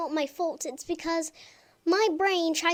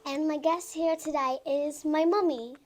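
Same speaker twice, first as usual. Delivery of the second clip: put-on British accent, chatty vlog intro; light British accent for mom; 5 dB quieter than usual. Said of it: "that's why I'm talking in my British accent right now".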